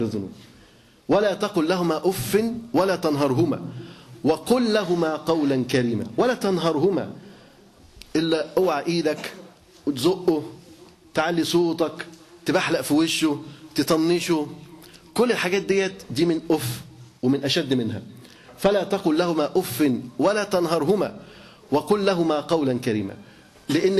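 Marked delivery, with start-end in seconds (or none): 1.1-7.1 slow, measured chanting of the verse; Quran recitation. Acted. Preacher reciting the verse to his listeners, slow solemn recitation. 18.6-23.1 Quran recitation. Acted. Preacher recites Quran verse.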